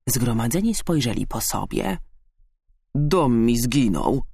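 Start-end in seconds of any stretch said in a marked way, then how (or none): 2.9-4.2 slow, drawn-out mild moan; moaning badger. A narrator's reading. Badger lamenting his lost home, slow moan. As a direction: groan it out slowly. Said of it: "jęknął borsuk".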